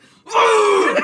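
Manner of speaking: loud yelp. Retold or imitated. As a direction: let out a sharp pained yelp. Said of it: "He let out, like, a loud one".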